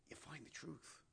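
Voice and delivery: whisper. Real, not acted. Preacher whispering the truth to the congregation. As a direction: lean in and whisper the secret.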